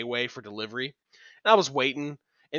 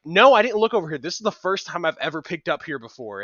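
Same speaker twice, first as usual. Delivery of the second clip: raised, higher voice on the opening, then easing off; too-loud snippy customer; 4 semitones higher, 7 dB louder than usual. Retold or imitated. Imitating a customer answering the new kid, loud and snippy. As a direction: imitate a rude customer pushing back loudly. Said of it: "she's talking a little louder than she should".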